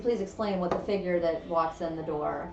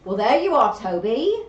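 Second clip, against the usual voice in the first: put-on Southern accent; 5 semitones higher, 13 dB louder, slower than usual. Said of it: "I don't know why I took on your accent".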